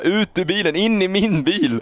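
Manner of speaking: high urgent shout at the pregnant woman; retold yell. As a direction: bark the order out in a panic. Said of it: "jag skriker åt henne".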